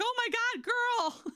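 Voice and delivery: very high, squealed retold exclamation; high-pitched incredulous protest; exasperated disbelief. Retold disbelief at employee's worry.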